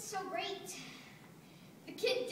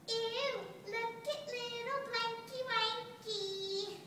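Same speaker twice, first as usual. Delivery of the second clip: put-on higher-pitched cooing baby talk; mock baby talk; 5 semitones higher than usual. Blanket mimics people talking down to kids, mock baby talk. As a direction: coo it mockingly, as if to a tiny child. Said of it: "why we baby talk kids".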